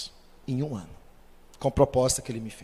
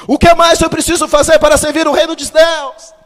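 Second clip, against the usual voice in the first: much higher, loud pleading question; pleading cry; 12 semitones higher, 12 dB louder than usual. Retold or imitated. Rich young man asking Jesus, loud high plea. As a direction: cry out to the Lord.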